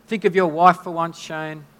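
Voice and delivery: half-playful telling-off; mildly scolding husband for his insensitivity; mock scolding. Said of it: "we can judge Shane and go".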